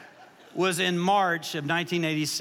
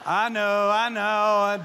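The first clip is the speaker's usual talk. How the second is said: mock apologetic; 2 semitones higher, 5 dB louder, much slower than usual. Real, not acted. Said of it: "Dad joke, dad joke".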